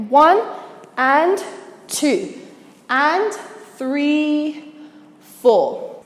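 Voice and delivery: slow count with a gap after each beat. Shown as a demonstration. Dance teacher going from here again, measured counting. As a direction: lift the beats high, settle down on "four". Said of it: "So from here again".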